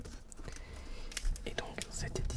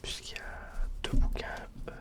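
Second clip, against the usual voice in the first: right in your ear. Real, not acted. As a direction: close binaural ASMR whisper. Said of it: "en binaural cette fois-ci".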